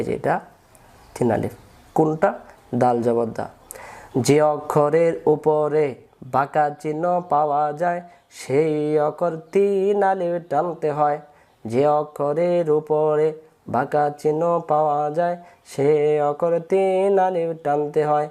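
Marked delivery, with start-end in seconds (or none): 4.2-11.2 rule recited slowly. Shown as a demonstration. 11.7-18.3 rule repeated slowly. Shown as a demonstration.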